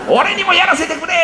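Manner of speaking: put-on high child's plea through a laugh. Father laughingly repeats son's plea. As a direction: repeat the kid's begging, amused.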